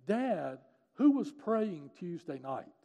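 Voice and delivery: earnest daughter's question, lightly acted; insistent question. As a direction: ask Dad with weighted, deliberate words. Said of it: "and she was crying".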